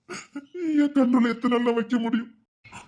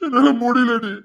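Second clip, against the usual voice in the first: crying; 4 dB louder, slower than usual. Acted. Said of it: "அழாதீங்கங்க".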